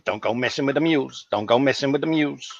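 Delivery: lightly voiced tough guy, barely changed; a mild hint of Mister T's gruff warning; Mister T impression. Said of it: "this voice of Mister T going".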